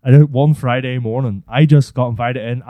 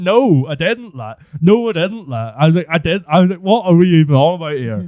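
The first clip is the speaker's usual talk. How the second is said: indignant denial; 5 semitones higher than usual. Retold or imitated.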